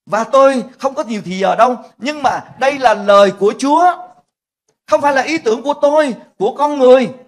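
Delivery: loud, high insistence from the pulpit; preaching with force. Acted. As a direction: drive the point home, loud. Sermon emphasis. (giảng mạnh mẽ, to và cao giọng)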